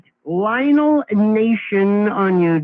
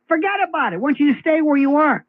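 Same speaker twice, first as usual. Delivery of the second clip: higher-pitched imitation of a boss waving it away; mock dismissal; 5 semitones higher than usual. Boss tells Elise to forget the ambassador job, mock dismissal. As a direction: brush her off, voice raised in pitch. Acting out boss reassigning nominee.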